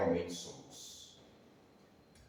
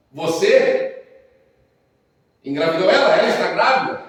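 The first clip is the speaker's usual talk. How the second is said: laughing through the question, higher and louder; incredulous, laughing pastor; amused disbelief at the news; 6 semitones higher, 9 dB louder than usual. Retold or imitated. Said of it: "ele começou a rir".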